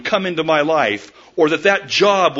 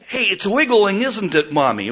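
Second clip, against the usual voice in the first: put-on little girl voice; 5 semitones higher than usual. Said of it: "she was saying".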